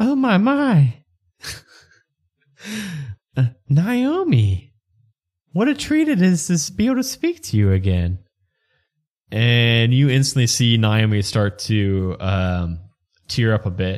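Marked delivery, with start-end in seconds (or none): 0.0-8.2 Southern belle voice, high and swooping. Voicing a ghost woman speaking to Naomi through a cup: Southern Belle voice. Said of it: "Southern Belle".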